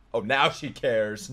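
slow, dry sarcasm; sarcastic jab. Real, not acted. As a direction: needle her for caring late.

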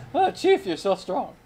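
laughing. Real, not acted. Laughing while being carried.

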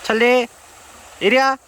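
high calling, coaxing the dog; talking to a dog. Real, not acted. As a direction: coax the dog over, high.

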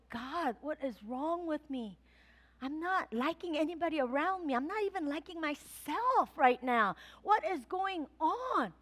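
soft, bewildered plea to God; troubled quiet prayer. Retold or imitated. Pastor retelling her confused prayer, soft and bewildered. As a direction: ask quietly, lost and confused. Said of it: "I'm like".

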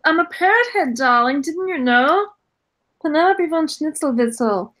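breathy vintage purr. Acted. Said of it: "Penelope hooked up with a singer".

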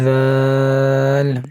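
দাল drawn out slowly; slow dhal. Shown as a demonstration. Teacher demonstrating dotted dal, slow. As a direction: hold দাল slowly, tongue tip on the teeth. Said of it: "দালের উপর এক নোক্তা".

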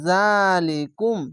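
জালিকুম stretched slowly, stopping on the কুম; slow recitation. Shown as a demonstration. Teacher modelling the pause, slow recitation. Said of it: "teacher demonstrates recitation".

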